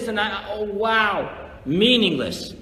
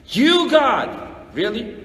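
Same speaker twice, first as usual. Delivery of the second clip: raised, higher outcry to God; mock indignant outcry; 3 semitones higher, slower than usual. Resentful worshipper confronting God.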